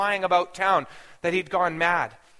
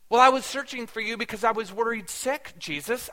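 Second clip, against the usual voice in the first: worried parent's forceful scolding, pitched up; 4 semitones higher, 4 dB louder than usual. Retold or imitated. Mother to her missing son Jesus, forceful. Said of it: "I wanted to say with some force".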